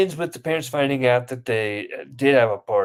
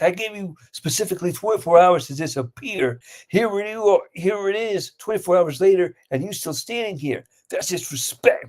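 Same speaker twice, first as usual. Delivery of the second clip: higher-pitched, affronted rant, acted out; mock gangster confrontation; 5 semitones higher than usual. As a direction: play a gangster calling out disrespect. Gangster confronts rival in skit.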